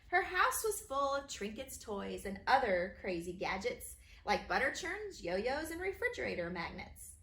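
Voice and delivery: bouncy, sing-song rhyme reading; rhyming read-aloud. A narrator's reading. Author reading her rhyming book to kids, bouncy.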